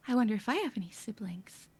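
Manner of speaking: soft, half-whispered wondering; quiet musing to oneself; hushed inner thought. Acted. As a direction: let a private thought slip out quietly. Voicing a character's fleeting thought.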